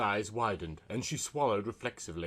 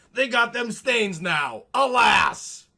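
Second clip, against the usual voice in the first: much higher, loud hammed-up shout; mock wail; 11 semitones higher, 9 dB louder, slower than usual. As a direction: bemoan the stains like a stage tragedy. Coffee spilled in his lap.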